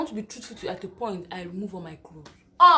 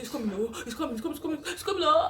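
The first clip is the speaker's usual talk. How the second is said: it's coming panic; 5 semitones higher, faster than usual. Retold or imitated. Contraction arriving.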